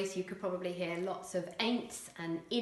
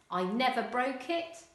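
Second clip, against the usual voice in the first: "I never broke it" said casually; casual dialect, "never broke"; non-standard English; 4 semitones higher, 3 dB louder than usual. Shown as a demonstration. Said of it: "non-standard English".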